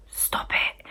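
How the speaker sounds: very soft eerie whisper; whispered woman's voice. Retold or imitated. Unseen woman speaking in her ear, soft whisper. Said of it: "in my ear".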